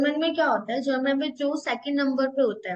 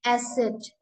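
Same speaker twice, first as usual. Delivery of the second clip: slow naming; 3 semitones lower, 3 dB quieter, much slower than usual. Shown as a demonstration. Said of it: "इस symbol का name है".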